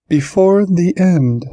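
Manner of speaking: high, slow prophetic creature; otherworldly high-pitched soothsayer; cryptic oracle creature. A narrator's reading. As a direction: intone it high and slowly, like an omen. Voices the Chandara's cryptic prophecy.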